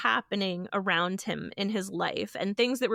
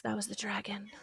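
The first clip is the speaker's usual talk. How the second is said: whisper; 10 dB quieter, faster than usual. Real, not acted. Aside after fiery rant.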